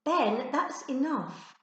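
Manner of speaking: annoyed. Acted. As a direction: put her foot down, annoyed.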